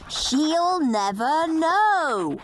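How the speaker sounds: a hint of a cheeky schoolboy, slow and gleeful; a touch of a mischievous big brother; lightly voiced naughty boy. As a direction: relish every rude word like a scamp. Henry's rude additions.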